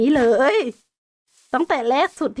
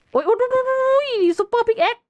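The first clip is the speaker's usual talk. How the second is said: startled yelps; 10 semitones higher than usual. Real, not acted. Surprised by super pickaxe breaking.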